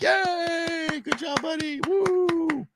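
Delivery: imitating a crowd's cheers; cheering crowd. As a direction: cheer him on like the onlookers. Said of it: "and everybody was like".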